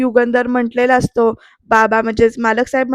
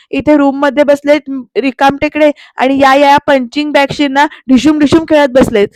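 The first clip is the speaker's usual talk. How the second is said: louder, mocking rebuke; sarcastic scolding; 4 dB louder than usual. Aarti mocking Pruthvi as the idle young master, loud. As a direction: sneer at the little boss.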